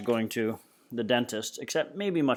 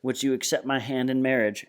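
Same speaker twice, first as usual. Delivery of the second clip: mock knight; 2 semitones higher than usual. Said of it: "Freak is strutting around".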